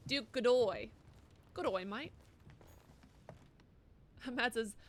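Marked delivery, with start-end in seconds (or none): 0.1-2.1 lightly put-on Australian accent. Player mocking the game's voice actor, Australian accent. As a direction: mimic the name in an Australian accent. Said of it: "in an Australian accent".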